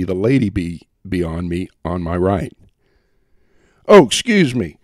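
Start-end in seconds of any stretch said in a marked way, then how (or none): 3.9-4.8 apologetic. A narrator's reading. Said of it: "he apologized".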